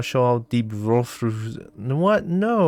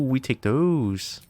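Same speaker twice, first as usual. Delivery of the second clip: slow satisfied; much slower than usual. Real, not acted. Repeat, slow.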